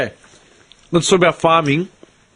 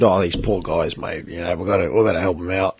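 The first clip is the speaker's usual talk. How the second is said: imitating a coworker; 11 semitones lower, 6 dB quieter than usual. Retelling coworker's sympathetic plea.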